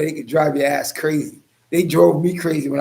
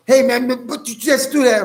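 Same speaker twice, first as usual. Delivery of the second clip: higher-pitched imitated heckler; mock complaint; 7 semitones higher than usual. Imitating somebody trying to get a reaction, mock outrage. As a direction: pitch it up, pestering. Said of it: "Somebody's going".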